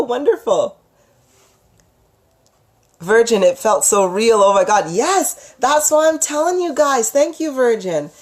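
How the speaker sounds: ordinary talk, nothing marked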